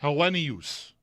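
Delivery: Hellenius repeated, with the e held and a Y turn in there; repeating the pronunciation. Shown as a demonstration. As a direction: copy Hellenius after the co-host. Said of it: "that was, as long as you get that little turn".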